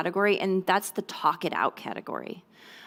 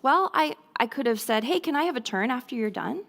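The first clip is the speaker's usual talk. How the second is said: lightly voiced child; 3 semitones higher than usual. Shown as a demonstration. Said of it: "he might answer something like this".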